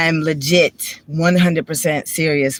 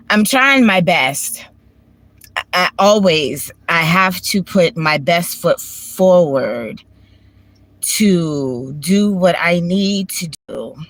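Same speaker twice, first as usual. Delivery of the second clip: slow, fighting back tears; holding back tears; slower than usual. Real, not acted. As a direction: push each word out slowly through real tears. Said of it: "I'm trying not to cry right now".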